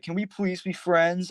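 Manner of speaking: high, slow pleading whine; mock pleading. Mimicking A K asking to be friends, mock pleading. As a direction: beg pitifully, stretching the words.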